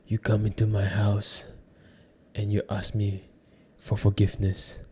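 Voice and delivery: soft, hushed movie mobster impression; The Godfather. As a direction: play an old-film crime boss, very quietly. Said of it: "old movie scenes, like The Godfather".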